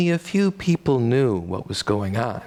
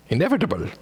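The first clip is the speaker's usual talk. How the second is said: Austrian accent; 4 semitones higher, much faster than usual. Shown as a demonstration. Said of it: "That's much better".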